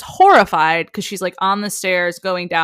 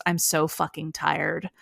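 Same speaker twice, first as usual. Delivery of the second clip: retold tired admission; 2 semitones lower, 9 dB quieter than usual. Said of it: "holding back tears".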